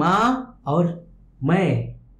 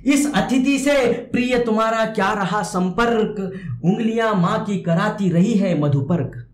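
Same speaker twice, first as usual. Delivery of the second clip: raised, sustained verse recital; poem recitation; 4 semitones higher than usual. Acted. Teacher recites the poet's words to the child, sustained poem recitation.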